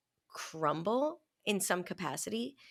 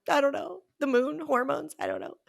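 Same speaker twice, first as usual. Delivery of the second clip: 1 exasperated; 7 semitones higher, 3 dB louder than usual. Retold or imitated. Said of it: "I'm like".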